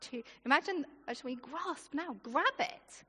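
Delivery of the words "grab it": ordinary delivery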